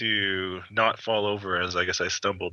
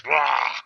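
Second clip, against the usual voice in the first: spit take; 5 semitones higher than usual. Acted. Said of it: "drool and spit everywhere".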